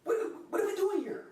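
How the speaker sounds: high, stammering near-sob; hammed-up tearful disbelief; distraught. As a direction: choke on the words, overwrought and pleading. Overwrought after Steelers jersey betrayal.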